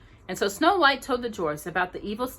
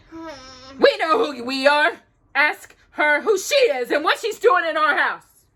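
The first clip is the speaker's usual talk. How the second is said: loud gruff dwarf voice; grumpy dwarf; 7 semitones higher, 7 dB louder than usual. A narrator's reading. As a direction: grumble it as the rude dwarf. Grumpy refuses the guest.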